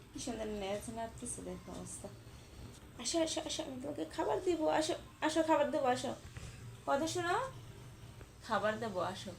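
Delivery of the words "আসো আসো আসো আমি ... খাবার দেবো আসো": higher, softer sweet calling; soft pet talk offering food; coaxing pet. Real, not acted. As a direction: lure it down with a treat.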